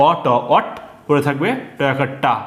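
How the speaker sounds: অ ট অট, then টয়াকার টা, sounded out piece by piece; spelling out syllables. Shown as a demonstration. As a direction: sound out অ ট অট like a teacher. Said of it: "একটা ট এইদিকে চলে আসবে".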